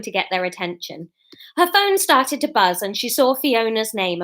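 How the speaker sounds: animated, projected reading aloud; story narration. A narrator's reading. Writer reading her new chapter to viewers, story narration. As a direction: read the chapter out to listeners.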